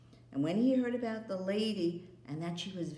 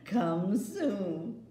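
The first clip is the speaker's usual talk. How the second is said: louder, calling after him; queen calling from the departing sleigh; 6 dB louder, much slower than usual. Acted. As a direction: call across the snow.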